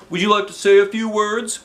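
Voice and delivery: high, bright showman's welcome; announcer voice. Acted. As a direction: announce it to the crowd. Principal announcing on stage.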